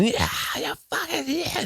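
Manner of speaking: very high, held-back scream imitation; mock scream. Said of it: "she was always screaming".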